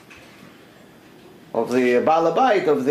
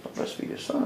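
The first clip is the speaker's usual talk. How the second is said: incredulous whisper; 12 dB quieter than usual. Retold or imitated. Roman woman's incredulous echo.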